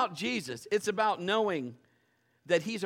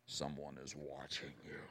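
much lower and softer, a spooky hushed voice; eerie whisper; 16 dB quieter than usual. Retold or imitated. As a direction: breathe it like a ghost story. Eerie feeling of being watched.

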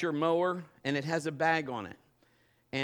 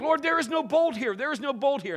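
exasperated cry; 12 semitones higher, 8 dB louder than usual. Retold or imitated. Frantic search in the garage.

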